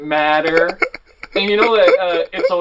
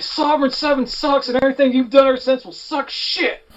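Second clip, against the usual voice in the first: put-on high-pitched teenage rant; angry outburst; 8 semitones higher than usual. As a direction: fire it off at him, pitch up. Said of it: "And I'm like".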